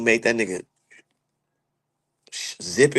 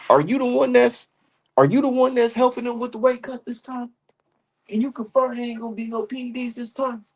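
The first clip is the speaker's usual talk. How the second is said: raised mock questioning voice; higher, reporter-style grilling; quoting Bill Haney; 9 semitones higher, 3 dB quieter than usual. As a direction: put the pointed question like Bill did. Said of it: "He said".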